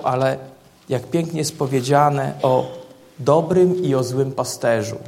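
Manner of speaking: preaching. Acted. Pastor preaching Ezekiel's good shepherd to the church, full voice. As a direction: proclaim it to the congregation with weight.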